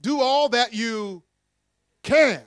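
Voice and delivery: can as the loudest, highest word; stress on can. Shown as a demonstration. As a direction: land hard on the word can. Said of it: "underline that word, "can".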